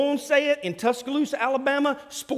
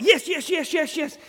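higher, rapid excited yes yes yes; eager yeses; 8 semitones higher, 3 dB louder than usual. Retold or imitated. Preacher imitating an emotional convert diving in, excited. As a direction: gush like a swept-up new believer. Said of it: "you're like".

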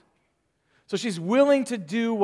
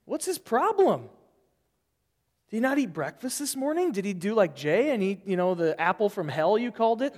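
higher, mock-grumbling gossip; mock indignant; 3 semitones higher than usual. Imagined church member complaining about pastor, indignant gossip. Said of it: "You'd be like".

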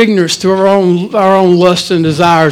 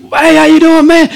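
playing it off; 7 semitones higher than usual. Playing off a missed high five.

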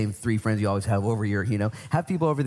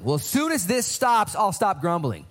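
whiny drawn-out complaint, much higher and slow; mock grumbler; 7 semitones higher, slower than usual. Preacher mimics a grumbling Christian, slow whiny bargaining. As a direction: sulk like a stubborn child.

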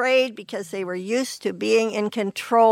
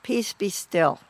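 calm command; 3 semitones lower than usual. Retold or imitated. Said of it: "and he said".

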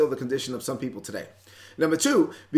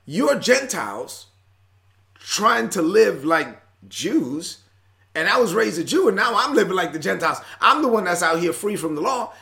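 exasperated Paul; 4 semitones higher, 4 dB louder than usual. Retold or imitated. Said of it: "He's like".

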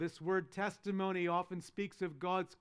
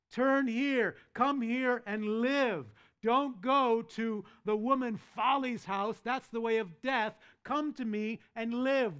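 louder, higher calling out to the simple; Lady Wisdom calling; 3 semitones higher, 5 dB louder than usual. Acted. Lady Wisdom calling the simple away from Folly, loud pleading invitation. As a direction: call them home, urgent and open-armed. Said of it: "when Lady Wisdom calls to the simple".

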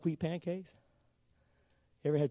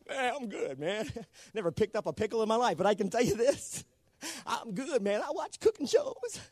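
lightly voiced smug know-it-all, pitched up; mock boaster; 6 semitones higher than usual. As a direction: play at bragging, drawing out the last words high. Mock boast of cooking-show watcher.

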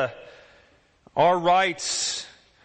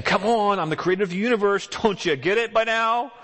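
impatient; 6 semitones higher than usual. Retold or imitated. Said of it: "He's not impatient with us and saying".

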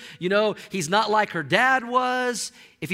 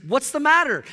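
questioning wife; 6 semitones higher, 5 dB louder than usual. Retold or imitated. Jezebel questions pouting Ahab.

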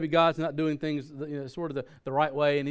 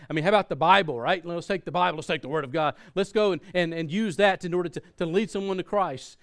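louder, insistent pleading; protesting; 3 semitones higher, 4 dB louder than usual. Retold or imitated. Pastor arguing with God over a cartoon tract, protesting. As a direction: argue the case with mounting insistence. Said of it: "having this debate going on with God".

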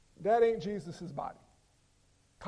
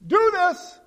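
higher, louder, pushy mock command; mock wrong reading; 6 semitones higher, 9 dB louder than usual. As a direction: parody a preachy misreading. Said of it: "So Jesus says".

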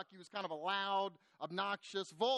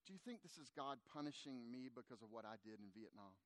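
very low, hushed retold grief; grief-stricken question; 9 semitones lower, 15 dB quieter than usual. Grieving father asks his pastor about punishment, hushed grief. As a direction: sink nearly to nothing, holding back, no sobbing. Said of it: "instantly tears began to".

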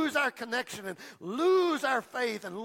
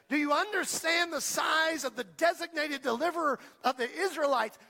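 passionate David; 4 semitones higher than usual. Acted. David answers the giant's threat.

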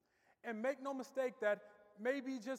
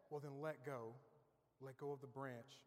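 calm command; 7 semitones lower, 11 dB quieter than usual. Retold or imitated. Heavenly voice calmly answers man.

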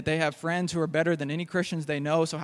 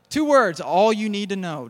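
put-on emphatic old man; 3 semitones higher, 6 dB louder, slower than usual. Old man's advice voiced.

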